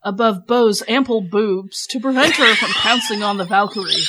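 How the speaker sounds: laughing as she rereads the corrected line; laughing read. Real, not acted. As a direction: read it while cracking up. Rereads edited line while laughing.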